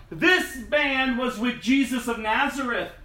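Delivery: accusing. Acted. Servant girl accuses Peter publicly.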